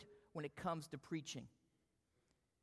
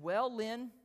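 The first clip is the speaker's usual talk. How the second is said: "Well, Lynn" louder and rising, a light hint of the professor; a mild take on the teacher starting his verdict; Haddon's "well"; 4 semitones higher, 5 dB louder than usual. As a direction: lift the "Well" upward, then name him. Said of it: "And he said".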